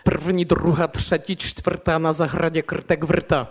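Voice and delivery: slow Czech consonant clusters in "krtek wrta"; Czech tongue twister. Retold or imitated. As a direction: roll through "prwni" and "krtek wrta" with syllabic R, no added vowels. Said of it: "dużo takich zbitek tych spółgłosek".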